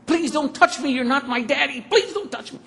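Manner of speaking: put-on high, loud, frightened child's cry; imitating a terrified little girl; screaming child. Little daughter screaming at her father, frightened. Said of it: "she's screaming".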